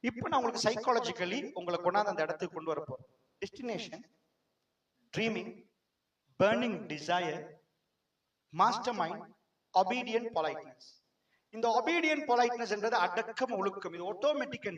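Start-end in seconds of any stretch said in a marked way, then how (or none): 3.4-10.9 each word drawn out very slowly; slow key term. Shown as a demonstration. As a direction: lay the term down slowly for students.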